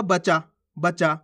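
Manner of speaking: बचा said slowly with a single च; misread conjunct. Shown as a demonstration. Teacher shows a misreading, बचा without doubled च. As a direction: drop the doubled च, ba-chaa for बचा. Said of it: "इस प्रकार से पढ़ोगे".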